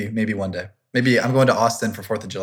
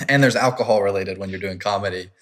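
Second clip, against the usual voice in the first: slightly louder for a listener who missed it; louder, clearer repeat; 4 dB louder than usual. Real, not acted. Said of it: "What's that?".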